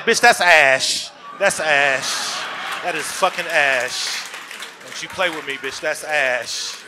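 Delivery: loud, slow, offended insistence; mock outraged protest; indignant retort. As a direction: defend your dignity, loud and slow. Indignant shout in story.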